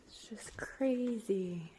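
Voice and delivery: shaking from the cold; trembling, chilled voice; shivering. Real, not acted. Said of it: "I'm shaking, I'm cold".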